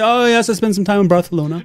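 pretentious friend. Acted. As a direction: play the showy traveller back from Spain, with Barthelona. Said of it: "your friend is uber pretentious".

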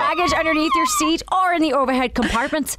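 Irish flight attendant reading the safety spiel; playful Irish cabin announcement; Irish accent. Acted. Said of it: "Now Irish".

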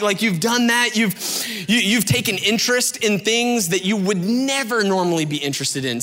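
usual speaking voice

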